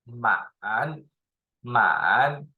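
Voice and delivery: 满 with a full dip and rise; third tone. Shown as a demonstration. Teacher demonstrating the word, full third tone. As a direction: draw 满 down, then back up. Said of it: "For third tone is".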